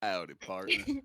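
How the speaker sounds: playful Texan cowboy greeting; mock Texan. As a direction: put on a Texas cowboy accent. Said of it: "make me sound convincing like Texan".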